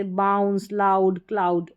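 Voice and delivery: बाउंस, लाउड, क्लाउड with an open "ow"; "ow" sound. Shown as a demonstration. Teacher gives examples of the spelling, "ow" sound. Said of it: "आऊ करके उच्चारण".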